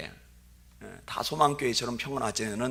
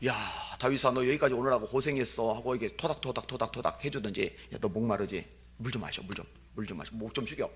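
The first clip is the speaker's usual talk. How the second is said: gentle big brother; 5 dB quieter than usual. Retold or imitated. Imagined kind big brother.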